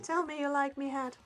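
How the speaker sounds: a light Irish brogue; Irish accent. Retold or imitated. Quoting Far and Away to her partner in Irish accent. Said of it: "Tom Cruise's accent".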